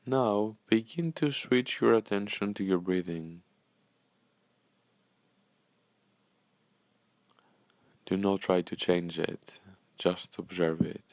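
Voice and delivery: calm, unhurried meditation guide with long pauses; measured, soothing guidance, leaving space after each phrase; guided meditation. Acted. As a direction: gently lead listeners into breathing and stillness.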